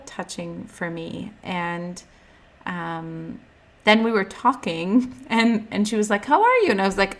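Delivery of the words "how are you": high mock grandma voice, louder; imitating grandma. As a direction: sing out a sweet old-lady greeting. Grandma voiced in retold chat.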